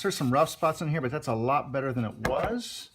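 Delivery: muffled behind a face mask; through face mask. Real, not acted. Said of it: "I'm talking through the mask".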